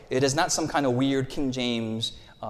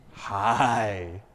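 normal friendly hi; 4 semitones lower than usual. Shown as a demonstration. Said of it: "this was a normal hi".

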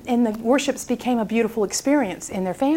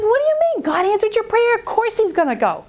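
astonished retort; 8 semitones higher than usual. Retold or imitated. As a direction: pitch jumps way up on what do you mean, mock disbelief. Pastor's astonished reply to wife.

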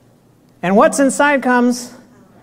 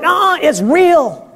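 stubborn patient; 6 semitones higher, slower than usual. Retold or imitated. Patient insists in acted argument.

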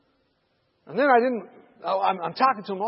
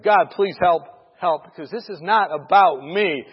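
prayer building to loud insistence; emphatic, mounting plea to God; pleading prayer; 8 dB louder, slower than usual. Retold or imitated. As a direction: start pleading, then punch each phrase louder.

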